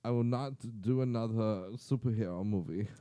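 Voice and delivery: lightly put-on composer voice; Hans Zimmer. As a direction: refuse with mock gravity. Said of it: "Hans was like".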